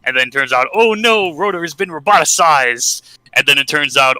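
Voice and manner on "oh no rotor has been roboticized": higher-pitched mock dismay; mock alarm. Podcaster retelling a comic plot twist, in mock alarm. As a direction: act out a mild "oh no" panic.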